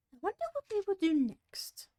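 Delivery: breathy whisper to herself; Alice wondering to herself in a whisper; whispered thought. Acted.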